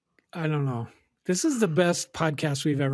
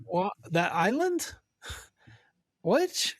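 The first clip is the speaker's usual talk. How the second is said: imitating; 5 semitones higher, slower than usual. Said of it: "And they're like".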